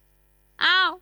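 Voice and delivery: high, tearful voice breaking into sobs; a weepy plea that cracks with crying; crying while speaking. Acted. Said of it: "เห็นแกร้อง".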